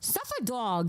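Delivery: lightly Jersey-accented vowel in "Dog". Shown as a demonstration. Streamer repeats "Suffa Dog" to show off a Jersey accent. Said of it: "that's my accent".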